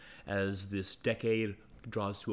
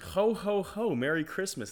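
Christmas voice; 7 semitones higher than usual. Shown as a demonstration. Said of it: "That's a fucking Christmas voice".

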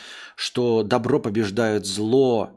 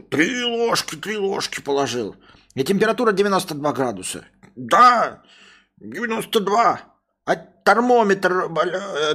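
high, stammering dopey voice; dim-witted servant; 8 semitones higher, 4 dB louder than usual. Acted. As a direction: fumble the excuse. Servant excusing himself.

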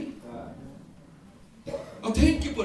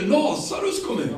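high, louder ringing call on Lazarus; a preacher's raised call into the tomb; 8 semitones higher, 3 dB louder than usual. Retold or imitated. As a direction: summon him out of the grave. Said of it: "Utan Jesus säger".

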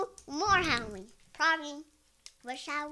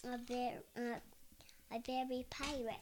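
whisper; 13 dB quieter than usual. Real, not acted. Child whispers costume answer.

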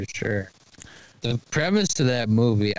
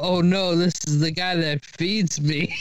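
high-pitched mock-worried dog; playful imitation of an alarmed pet; panicking dog; 6 semitones higher than usual. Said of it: "He's like".

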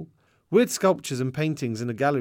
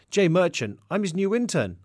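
lightly proud, higher-pitched introduction; 6 semitones higher, 3 dB louder than usual. A narrator's reading. New intern introducing himself to the receptionist, mildly proud. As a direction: announce yourself with a touch of pride. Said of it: "I replied proudly".

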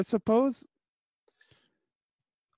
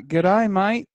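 loud, higher attempt at an Australian accent; 4 semitones higher, 7 dB louder than usual. Shown as a demonstration. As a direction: belt out a stock Australian greeting accent. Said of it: "when I do the Australian accent".

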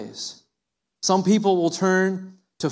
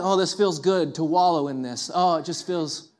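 wallowing self-pity; 3 semitones lower than usual. Pretend. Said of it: "and feel like".

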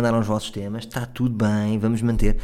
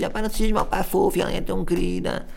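put-on cutesy girl voice; 7 semitones higher than usual. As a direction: defend her friend sweetly. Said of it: "a outra também diz". (voz aguda de fofinha a defender a amiga)

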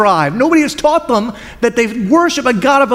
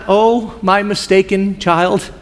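tender rebuke; slower than usual. Shown as a demonstration.

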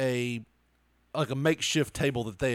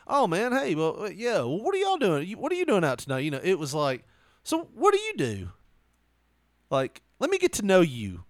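higher, eager, chatty come-on voice; flirty small talk; 4 semitones higher than usual. Retold or imitated. Guy at karaoke bar chatting up the teller, mock flirty. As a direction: sound like you're chatting someone up on a date. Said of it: "like, normal talk".

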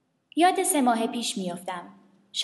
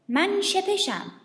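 louse voice; 8 semitones higher, much slower than usual. Acted. The louse introduces itself.

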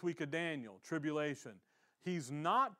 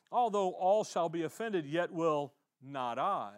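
a hint of proud Peter, louder; boastful Peter; 5 dB louder than usual. Scene: Peter boasting to Jesus he will never fall, loud and proud.

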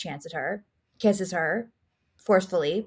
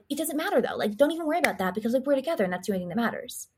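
higher, hurried brushing-off of worries; mock reassurance; 5 semitones higher, much faster than usual. Jeffrey soothing upset Elizabeth, hurried mock reassurance. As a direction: lightly imitate a man rushing to soothe.

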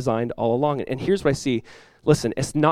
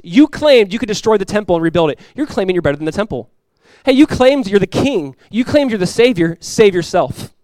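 higher, louder scornful jeering; mocking taunt; 5 semitones higher, 4 dB louder than usual. Preacher acting the mockers scorning Jesus' claims, louder. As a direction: taunt him with his own claims. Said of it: "They're saying".

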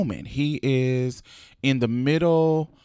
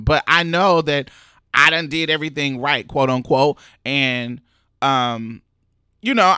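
fast, louder exasperated rant; frustrated venting; 4 dB louder than usual. Retold or imitated. Pray Tell in his hospital bed, venting: fast frustrated rant. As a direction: spill it all out, fed up and cornered.

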